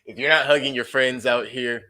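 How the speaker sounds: lightly voiced cranky old man; a hint of a grumpy grandpa scolding. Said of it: "hit y'all with the grandpa voice".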